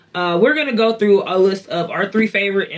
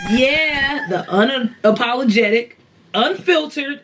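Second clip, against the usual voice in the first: podcast host intro; 4 semitones higher than usual. Real, not acted. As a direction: lively show opener with a drawn-out title.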